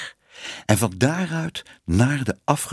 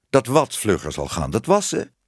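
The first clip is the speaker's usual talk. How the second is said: puzzled query. Acted. Man not following her washing excuse, puzzled.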